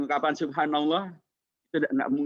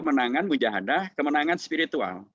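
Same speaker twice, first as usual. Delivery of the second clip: glitching robot; 4 semitones higher, 3 dB louder than usual. Real, not acted. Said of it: "Robot, kayak robot".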